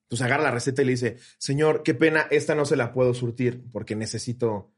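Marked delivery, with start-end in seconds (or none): 1.4-4.7 softer, lower, unruffled customer-service voice; evenly polite, keeping composure; composed pharmacy clerk. Retold or imitated. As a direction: imitate a patient clerk apologizing. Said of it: "el pinche temple".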